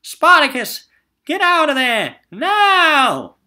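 high, loud warning yell at a friend; frantic shout. Acted. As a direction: scream the warning to get him out. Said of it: "so he shouted".

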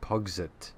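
Pugsit read out as written, not as pocket; misread word. Shown as a demonstration. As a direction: say Pugsit literally, puzzled. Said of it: "I think that was supposed to be pocket".

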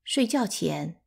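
ordinary delivery, nothing marked

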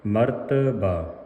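ਮਰਤਬਾ as ਮਰਤ-ਬਾ, ਬਾ distinct; correct pronunciation. Shown as a demonstration. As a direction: give ਮਰਤਬਾ a slight join before long ਬਾ. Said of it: "ਇਸ ਤਰ੍ਹਾਂ ਪੜ੍ਹਨਾ ਹੈ".

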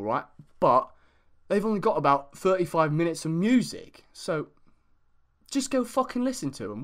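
lightly put-on English accent, casual and sweary; fake British accent. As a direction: chat like a mate from England, not too heavy. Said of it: "my stupid accent? It's fake".

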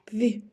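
"в" alone, short and palatalised; soft consonant sound. Shown as a demonstration. Teacher gives children the first sound, soft "в". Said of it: "м'який".

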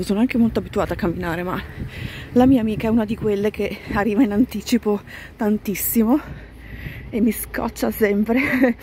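slightly out of breath from walking fast. Real, not acted. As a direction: talk while breathing hard on a brisk walk. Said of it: "se mi sentite col fiatone".

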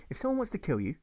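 put-on a teacher gently instructing children; Sunday school teacher. Teacher to her Sunday school class, sweetly preachy. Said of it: "she says".

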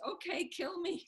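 defiant dare. Retold or imitated. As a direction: toss the threat back at him, unafraid. Servant defies knight in retold tale.

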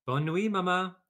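high, loud French duckling goodnight; a lightly voiced French baby duck. A narrator's reading. Duckling says goodnight to Jack, high voice. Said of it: "said the baby duck".

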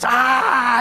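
loud drawn-out "ah"; long theatrical groan of frustration; mock exasperated cry. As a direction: imitate a complainer's wordless outburst. Mimics complaining church member.

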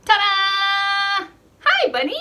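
loud high ta-da; excited reveal. Real, not acted. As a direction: burst out to show the bunny. Reveals the puppet to toddlers.

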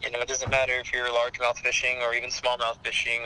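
usual speaking voice

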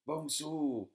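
a sharp angry yell of her sister's name; sharp shout. A narrator's reading. Older sister yelling at her younger sister, sharp and angry. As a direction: snap the name out high and loud. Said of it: "schrie da ihre Schwester scharf".

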